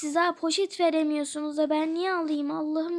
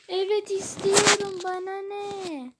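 defiant whine; 4 semitones higher than usual. Acted. Defiant about wanting toy.

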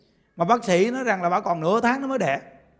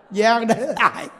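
usual speaking voice

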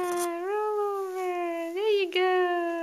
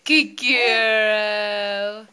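excited praise; 7 semitones lower, 6 dB louder than usual. Real, not acted. Praising baby.

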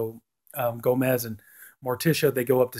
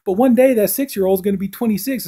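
imitating Hilliard, raised; 8 semitones higher, 3 dB louder than usual. Hilliard quoted in retelling.

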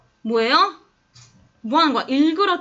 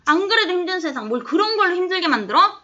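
quicker, higher-pitched mock scolding; retold reproach; 5 semitones higher, faster than usual. The woman scolds Montag for making life harder, reproachful. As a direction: imitate an exasperated rebuke, brisk and high. Retelling the woman's rebuke of reader.

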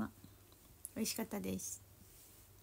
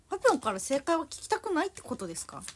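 playful mock scolding; 4 semitones higher, 3 dB louder than usual. Playfully scolding chat viewers.

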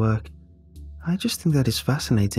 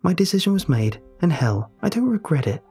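defiant bravado; 5 semitones higher than usual. Acted. Ellie defending her choice to the narrator, defiant. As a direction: insist you're fine too hard.

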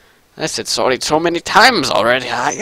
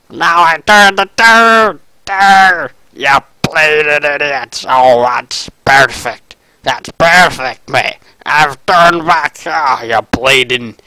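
rowdy Scottish brawler voice; gruff mock Scottish cursing; Demo Man accent. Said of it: "I'm a demo man now".

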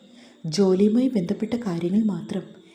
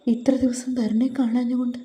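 tearful outburst; 3 semitones higher than usual. Acted. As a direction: pour it all out, on the verge of crying. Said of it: "പൊട്ടിക്കരഞ്ഞു".

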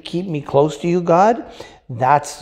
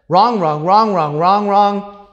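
each wrong louder and higher, building; rising angry repeat; 6 semitones higher, 7 dB louder than usual. Shown as a demonstration. Preacher shouting at the congregation, building. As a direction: hammer the word wrong, climbing. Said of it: "Hang on. What I just did was wrong".

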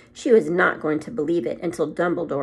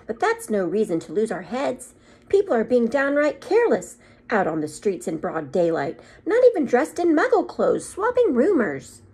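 higher, louder and irritable; 5 semitones higher, 4 dB louder than usual. A narrator's reading. Professor complains to Dumbledore, higher and irritated. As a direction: huff it out, fed up with careless people.

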